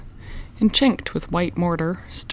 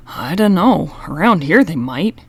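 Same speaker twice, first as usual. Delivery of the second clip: worried; 6 dB louder than usual. A narrator's reading. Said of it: "in a worried voice".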